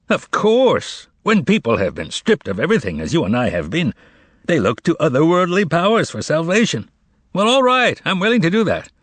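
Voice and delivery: laughing. A narrator's reading. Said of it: "adding with a laugh".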